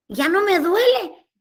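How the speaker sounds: high, loud, drawn-out exclamation; acted amazement. Woman at mass finding her hand no longer hurts, amazed. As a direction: marvel aloud, stretching the words upward. Acts out discovering pain is gone.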